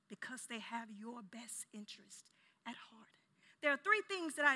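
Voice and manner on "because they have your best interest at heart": near-whispered, very soft explanation; hushed aside. Real, not acted. Preacher explaining why loved ones silence you, hushed. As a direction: keep the voice right down, almost whispering.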